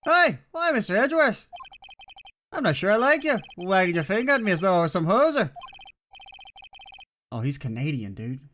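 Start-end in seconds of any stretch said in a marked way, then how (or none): 0.0-5.5 high, louder huffy judge; indignant judge. Acted. Judge offended by Edgeworth's wagging finger, high and huffy. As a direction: huff at the prosecutor from the bench. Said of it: "I've given him the wrong accent".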